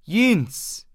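put-on high desperate shriek of a dying old woman; shrieking cry. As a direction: scream the name out like a cry for help. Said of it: "Und kreischend, wie ein Notschrei".

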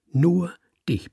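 urgent whisper on "nur dich"; whispered emphasis. A narrator's reading. Mate hisses the secret.

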